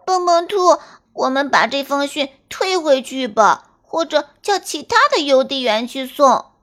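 high, frightened little rabbit pleading; scared bunny begging to turn back; voice trembling with fear. Acted. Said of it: "跳跳兔吓得声音都抖了起来".

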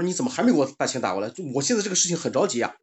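mock-anxious demand for money; imitated urgency. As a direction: hurry them up like an impatient scammer. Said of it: "那个骗子就着急了".

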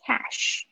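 CASH with open short A and crisp final sh; careful pronunciation. Shown as a demonstration. Teacher models cash for students' A and SH, careful pronunciation. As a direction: say "cash" with a clear sh at the end. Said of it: "注意一下你们的A跟S H的发音".

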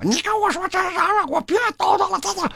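high, indignant mock scolding; high-pitched imitated telling-off; scolding mom. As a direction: snap back like an offended mother. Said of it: "我妈就开始骂我".

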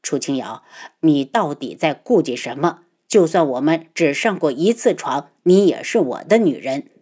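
low, frustrated possessive voice; cold possessive boss. Acted. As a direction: press her, low and a bit angry. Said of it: "恼羞成怒".

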